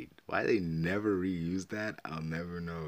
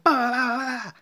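high dismissive blah; 12 dB louder, slower than usual. Real, not acted. Filler burst.

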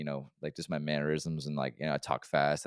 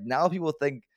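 high, loud, worked-up protest; aggrieved complaint; 10 semitones higher, 6 dB louder than usual. Retold or imitated. Man blaming coworker for a rumor, loud and aggrieved. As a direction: pitch it up in outrage. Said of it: "I got mad about that shit".

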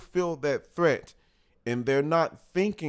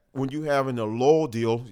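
burping. Real, not acted. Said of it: "I'm burping here".

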